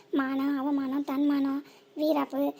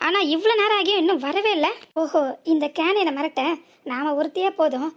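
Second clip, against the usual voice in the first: louder, sarcastic accusing questions; mock her missing accomplices; angry taunting; 6 dB louder than usual. Driver sneers at the woman about her absent accomplices, angrily.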